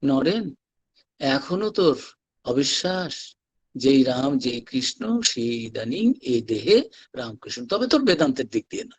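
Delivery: low-pitched imitation of a bedridden guru, with pauses; Thakur, dying master. Dying master addressing doubting Naren, low solemn retelling. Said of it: "সেই অবস্থায় উঠে বললেন".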